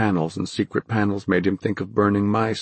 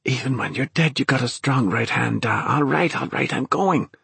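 higher, panicky, half-laughing; hysterical; 5 semitones higher than usual. A narrator's reading. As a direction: rattle it off in frantic fear. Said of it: "Dennis thought hysterically".

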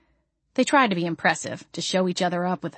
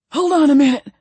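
loud; 8 semitones higher, 7 dB louder than usual. Acted. Ray catching breath.

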